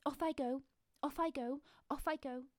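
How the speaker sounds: a timid mouse giving himself courage; nervous little mouse. Acted. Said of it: "kept saying to himself".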